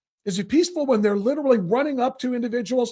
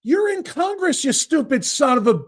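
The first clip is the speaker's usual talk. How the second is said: exasperated retort; 3 semitones higher than usual. Real, not acted. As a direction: throw You're in Congress back at him, annoyed. Repeats line to guest.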